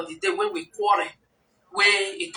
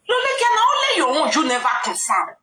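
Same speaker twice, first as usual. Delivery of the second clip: rising indignation; 5 semitones higher, faster than usual. Retold or imitated. Heated quarrel retold.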